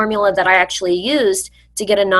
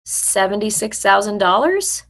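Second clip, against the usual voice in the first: wary question. Shown as a demonstration. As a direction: repeat the number back, doubtful, rising. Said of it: "Ask it back like it's a question".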